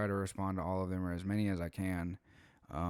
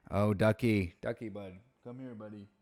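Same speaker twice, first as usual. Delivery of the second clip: pet talk; 2 semitones higher than usual. Real, not acted. Calling his dog Ducky.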